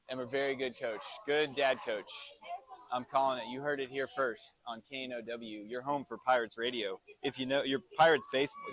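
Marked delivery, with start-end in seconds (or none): 3.5-8.7 softer, tongue-tied radio tagline; fumbled station tagline. Real, not acted. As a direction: stumble through the station slogan, muddling "your Pirates baseball". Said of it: "I can't even talk straight".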